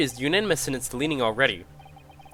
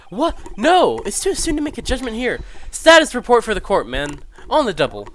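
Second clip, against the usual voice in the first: much higher and louder, barking orders; indignant outburst; 6 semitones higher, 6 dB louder than usual. Acted. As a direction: snap the foreman to attention. Outburst demanding a status report.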